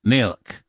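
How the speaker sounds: "milk" said as muic, oo vowel, no l; Irish pronunciation. Shown as a demonstration. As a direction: show "milk" as the Irish word, like mook. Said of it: "is from the Irish".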